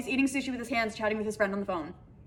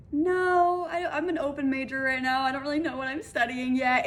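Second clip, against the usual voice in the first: awkward; 3 semitones higher than usual. Retold or imitated. Retelling her answer to the date's odd question, awkward. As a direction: stretch the opening and stumble on awkwardly. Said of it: "It was so awkward".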